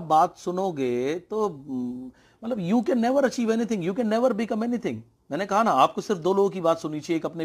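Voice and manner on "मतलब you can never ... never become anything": never drawn out high and slow; stress on never. Real, not acted. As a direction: lean hard on never, slowly and much higher. Motivational point, stressing never. (never को ऊँचा और धीमा खींचकर ज़ोर देना)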